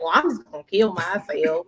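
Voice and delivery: mildly mimicked country twang; country little kid. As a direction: imitate a small boy's country accent. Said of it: "it, it's so country".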